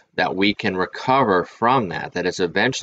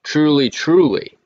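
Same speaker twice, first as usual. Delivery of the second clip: slow, high, louder "Truly, truly" with each word weighed; solemn Jesus quote; 7 semitones higher, 4 dB louder, slower than usual. Retold or imitated. Quoting Jesus's words to viewers, slow and solemn. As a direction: proclaim "Truly, truly" like Jesus preaching. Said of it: "In fact, Jesus says".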